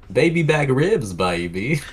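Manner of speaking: slow high put-on spy voice; a lightly voiced swinging spy; Austin Powers. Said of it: "Austin Powers serve you food".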